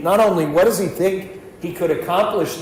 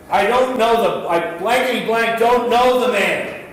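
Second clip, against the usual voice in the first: mock cursing denial; 5 semitones higher than usual. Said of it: "he says for the third time, with some colorful language".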